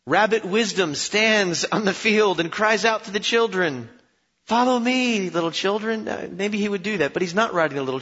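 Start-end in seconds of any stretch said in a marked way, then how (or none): 0.1-6.1 mock children's proverb.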